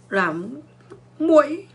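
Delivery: a mock mosquito squeak on muỗi; mosquito whine. Shown as a demonstration. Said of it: "anh làm tiếng muỗi".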